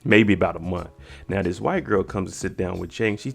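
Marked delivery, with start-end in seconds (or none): 0.0-0.9 low, curt imitated replies; one-word answers. Jake answering about his hand, terse retold replies. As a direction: answer minimally, with gaps between replies. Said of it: "giving one word answers".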